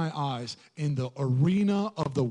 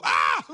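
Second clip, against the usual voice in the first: short comic shriek of alarm; mock startled scream; 5 semitones lower than usual. Preacher mimics Eve startled by a talking serpent, mock scream. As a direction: yelp as if startled, in jest. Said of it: "Eve didn't go".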